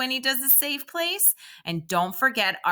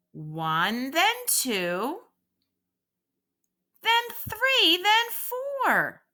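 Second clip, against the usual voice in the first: counting slowly; 9 semitones higher, much slower than usual. Shown as a demonstration. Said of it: "I will say it nice and slow".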